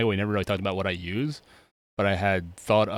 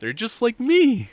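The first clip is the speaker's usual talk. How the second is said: high, slow proud coo; proud squeaky voice; 14 semitones higher, 6 dB louder, slower than usual. Acted. Proud priest.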